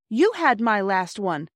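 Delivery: slow, indignant retort; mildly indignant, taking offence. Acted. Sister indignant at her brother over the hanky. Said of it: "said Phyllis indignantly".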